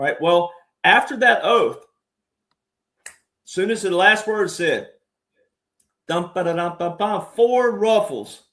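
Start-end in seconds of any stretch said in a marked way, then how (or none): 6.1-8.4 humming ruffles. Shown as a demonstration. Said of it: "They call them ruffles and flourishes".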